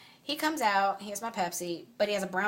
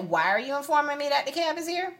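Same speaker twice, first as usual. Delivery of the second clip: sarcastic mock politeness; 8 semitones higher than usual. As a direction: feign politeness, cut him down. Repeat sarcastic question.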